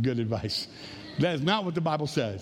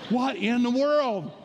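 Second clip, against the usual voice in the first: slow words through laughter; amused, laughing disbelief; 6 semitones higher, slower than usual. Real, not acted. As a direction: still laughing as you say it. Laughing at his own joke.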